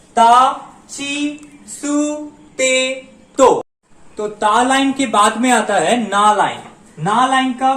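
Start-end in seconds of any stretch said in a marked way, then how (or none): 0.1-3.6 slow recitation. Shown as a demonstration. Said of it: "ता line में five letters होते हैं".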